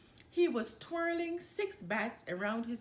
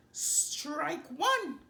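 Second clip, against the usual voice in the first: higher, louder umpire call; 7 semitones higher, 4 dB louder than usual. A narrator's reading. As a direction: call it across the diamond. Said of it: "called the ump".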